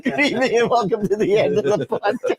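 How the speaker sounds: announcer voice broken up by laughter; laughing announcer sign-off. Pretend. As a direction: laugh through the big sign-off.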